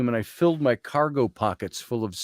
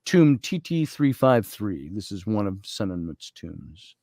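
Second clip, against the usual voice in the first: journal reading. Real, not acted. Speaker shares a journal entry from the tomb, measured reading.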